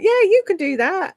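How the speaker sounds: cocky inner voice. Retold or imitated. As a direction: egg yourself on like a cheeky voice in your head. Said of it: "now my head's like".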